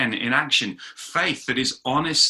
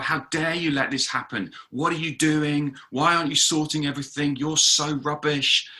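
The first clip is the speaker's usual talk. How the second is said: mock accusing; 4 semitones higher than usual. People blaming God for what's happened, mildly accusing. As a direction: act out a complaint, dragging out the last jibe. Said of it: "we start to accuse God".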